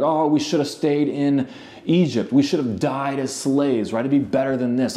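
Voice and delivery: mock whine from people fed up in the desert; whiny complaining. Israelites griping to God about Egypt, mock whiny. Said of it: "complaining, whiny babies".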